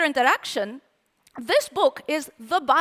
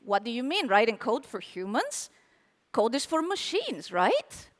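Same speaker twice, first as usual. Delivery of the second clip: lightly voiced doubtful listener, low and soft; sceptical developer; 4 semitones lower, 6 dB quieter than usual. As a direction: lower and softer, a doubting aside. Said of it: "you're probably thinking".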